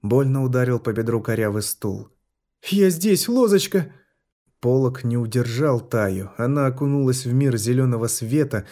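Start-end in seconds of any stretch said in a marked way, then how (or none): 2.6-3.9 high, loud reassuring cry; a mother shouting to her daughter; крик матери; desperate call. A narrator's reading. Mother bursts in to her child.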